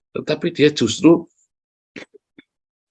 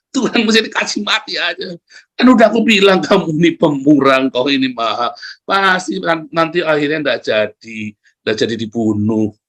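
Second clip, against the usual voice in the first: annoyed complaint. Retold or imitated. Jonah complaining to God, annoyed the city was spared. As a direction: grumble at God like a sulking prophet. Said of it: "Jengkel Yunus".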